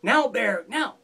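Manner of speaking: a lighter, half-voiced echo of the call; imagined call. A narrator's reading. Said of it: "waiting for Fox to call out to him".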